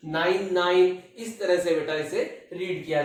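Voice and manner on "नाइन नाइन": digits one by one. Shown as a demonstration. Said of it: "ऐसे नहीं बोलना है".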